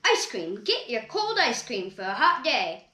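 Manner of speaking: a vendor calling out to customers; cheerful vendor's sales call; ice cream vendor. Acted. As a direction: sell it like a street ice cream seller.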